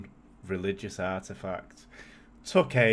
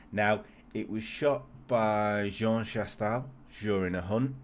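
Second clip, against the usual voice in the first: put-on French accent. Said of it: "you went all French there".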